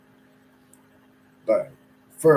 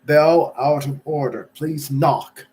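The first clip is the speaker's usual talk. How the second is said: louder sign-reading together; reading in unison; 3 semitones higher, 7 dB louder, slower than usual. Acted. Companions reading the notice aloud together, in unison. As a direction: read the notice aloud as one. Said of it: "in one voice".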